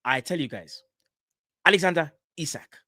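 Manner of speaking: lightly voiced transfer reporter, hyped; mimicking a football transfer insider gassing up news; Fabrizio Romano impression. Mate mimics the transfer reporter to his co-host, lightly hyped. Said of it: "I can't do the accent, but it's the stuff that he says".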